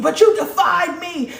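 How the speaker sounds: high, loud, mocking angry parent with a laugh. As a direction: squawk it like an outraged parent. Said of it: "that parent get mad and be like".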